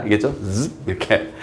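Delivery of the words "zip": quick buzzy "zip" like a zipper; soft zipper noise made with the mouth; imitated zipper sound. Shown as a demonstration. Teacher showing how a zipper shuts the mouth, imitated zip. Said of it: "지퍼 소리 내는 것처럼".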